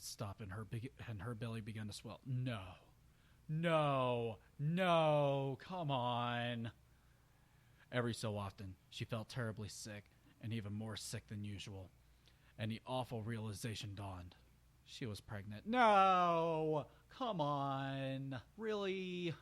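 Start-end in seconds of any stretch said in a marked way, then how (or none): 2.3-6.7 rising, louder protest of no; exasperated groan. Real, not acted. Reader protesting the grim story turn, exasperated. 15.7-19.3 loud, high cry of disbelief; exasperated outburst. Real, not acted. Reader objecting to the pregnancy twist, loud and incredulous.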